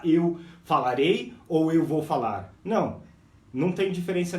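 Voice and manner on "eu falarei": "eu falarei" slow with a lift on "eu"; slow teaching model; slow demo. Shown as a demonstration. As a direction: model it slowly. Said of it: "antes de você falar".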